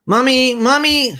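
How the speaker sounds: put-on very high, loud little-girl call; loud excited child. Energetic Queenie calling her mother as she enters, loud and excited. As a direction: burst in calling like an energetic four-year-old. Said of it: "please lower your voice".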